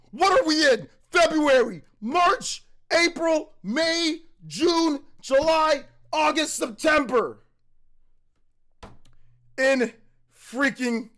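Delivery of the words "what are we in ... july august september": real excitement building to September; excited countdown. Real, not acted. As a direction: count them off in giddy disbelief. Counting months till release.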